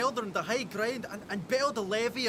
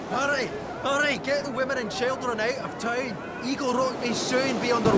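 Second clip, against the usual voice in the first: louder, urgent rallying call; urgent shout; 3 semitones higher, 4 dB louder than usual. Acted. Masked man urging townsfolk to flee, urgent shout. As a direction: push the crowd to move now.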